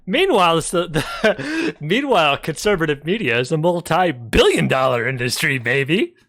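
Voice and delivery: smug money-hungry tycoon, lightly voiced; greedy capitalist voice. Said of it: "like a greedy capitalist voice".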